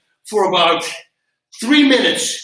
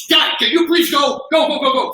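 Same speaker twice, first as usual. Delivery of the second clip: higher, louder hurried call; urging shout; 7 semitones higher, 3 dB louder than usual. Retold or imitated. Instructor pushing stunned students to train, a loud urging shout. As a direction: hurry them along, impatient. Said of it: "So I go".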